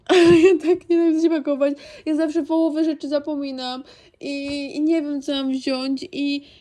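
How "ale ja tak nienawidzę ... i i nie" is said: laughing, louder and fast; laughing exasperation. Real, not acted. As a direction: laugh through the complaint. (śmiejąc się z frustracji)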